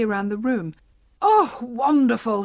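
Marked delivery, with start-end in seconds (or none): 1.2-2.4 put-on slow, delighted old man's cry of wonder; overjoyed cry dragged out; joyful cry. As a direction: burst out in happy relief. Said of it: "he cried".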